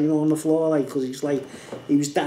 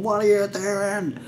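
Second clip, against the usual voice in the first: retold shout; 4 semitones higher, slower than usual. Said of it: "just shouting at everyone".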